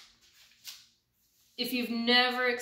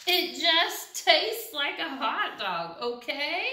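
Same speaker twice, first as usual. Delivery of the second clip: exasperated pigeon; 4 semitones higher, 3 dB louder, slower than usual. Acted.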